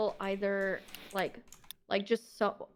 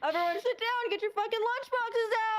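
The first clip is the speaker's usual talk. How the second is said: sarcastic teacher voice; 10 semitones higher than usual. Pretend. Mock teacher calling lunchtime.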